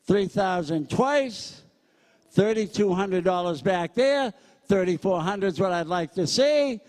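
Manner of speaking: brisk, punchy auctioneer chant, pitch up; auctioneer bid calling. Acted. Auctioneer working the crowd at a school charity, brisk bid calling. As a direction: sell it to the room, count the bids out.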